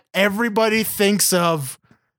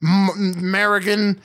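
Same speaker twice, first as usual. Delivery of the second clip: put-on old-timey polite fella; slower than usual. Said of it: "a fella who wouldn't be like".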